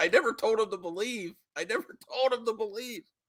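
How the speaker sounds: crying with laughter. Explaining what was actually said, crying with laughter. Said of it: "I'm crying".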